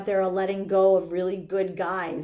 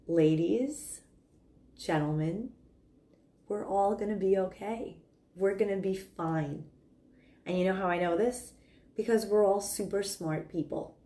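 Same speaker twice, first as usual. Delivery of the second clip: calm leader. Acted. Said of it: "you can just be quiet".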